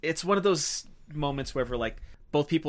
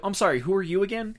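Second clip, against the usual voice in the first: high-pitched mock confusion; drunk, angry dismissal; 9 semitones higher, 4 dB louder than usual. Drunk angry husband confronting the doctor, dismissive. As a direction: challenge with a raised, put-upon question. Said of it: "since he's drunk and angry".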